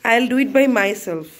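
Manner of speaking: loud, very slow, word by word; loud slow insistence; firm telling off. Real, not acted. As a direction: spell it out firmly, slowly. Scolding child, very slow.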